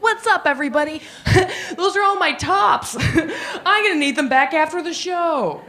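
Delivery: laughing through a hyped greeting; giggly hype. Retold or imitated. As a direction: crack up while calling out to the crowd. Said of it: "And I'd be like".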